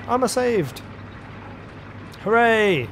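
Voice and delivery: high-pitched mock-Italian cheer; terrible Italian accent. Luigi thinks he has been saved, cheering in terrible Italian accent. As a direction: celebrate in a badly faked Italian accent. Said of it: "That's a terrible accent".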